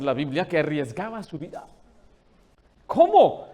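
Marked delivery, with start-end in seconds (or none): 2.9-3.5 sharp astonished cry, much higher and louder; shocked. Real, not acted. Preacher shocked at Esther's danger, exclaiming. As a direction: gasp out the question in disbelief.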